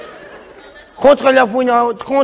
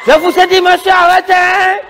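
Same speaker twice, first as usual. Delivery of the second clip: higher-pitched acted police warning; insistent, raised-pitch order; officer's warning; 5 semitones higher than usual. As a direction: warn someone off like an officer. Plays officer ordering a stop.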